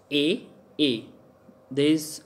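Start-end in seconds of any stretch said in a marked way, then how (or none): 0.1-0.5 "A" pitched high, rising. Shown as a demonstration. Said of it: "high pitch and low pitch". 0.8-1.1 "A" pitched lower, falling. Shown as a demonstration. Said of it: "high pitch and low pitch".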